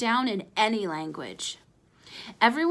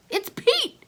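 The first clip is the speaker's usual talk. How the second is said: grumbled; 13 semitones higher than usual. Acted. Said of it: "grumbled Ace".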